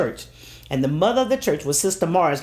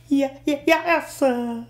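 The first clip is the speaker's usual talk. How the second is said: put-on high stammering little girl; frightened stammer; 8 semitones higher than usual. Scared daughter stammering an answer to her angry father, high. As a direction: stumble over yes sir, high and scared.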